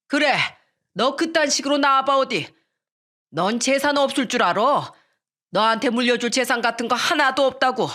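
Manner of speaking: father threatening to cut his son off; angry old father. Acted. Father scolds eldest son.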